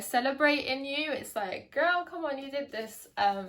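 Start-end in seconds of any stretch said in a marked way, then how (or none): 1.7-3.1 put-on higher-pitched, celebratory American accent. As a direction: cheer a friend on in mock American. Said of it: "say that in an American accent".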